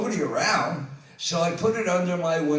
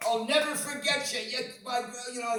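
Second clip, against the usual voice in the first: a grateful farewell in a British voice; a rock drummer's voice; 7 semitones higher than usual. Retold or imitated. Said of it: "and he walks".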